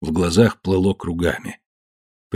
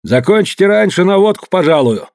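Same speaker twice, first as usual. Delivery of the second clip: coaxing; 10 semitones higher, 3 dB louder than usual. Acted. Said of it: "сменил тон".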